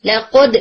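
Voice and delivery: لقد said slowly with a tight bounce on the د and no jaw motion; لقد slow, with a clean د bounce; correct qalqala. Shown as a demonstration. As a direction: bounce the د of لقد with the face still. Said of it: "نہیں، لقد".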